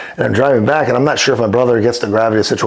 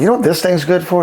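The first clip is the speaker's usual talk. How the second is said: joking quote; 8 semitones higher than usual. Retold or imitated. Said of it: "I'm like".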